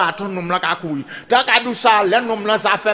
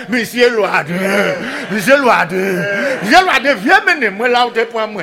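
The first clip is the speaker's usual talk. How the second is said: pig calling out; 4 dB louder than usual. Acted. Pig calls to the hunter.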